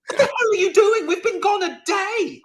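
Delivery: angry shout. Acted. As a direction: yell at them like a betrayed ally. USA yelling at Afghanistan.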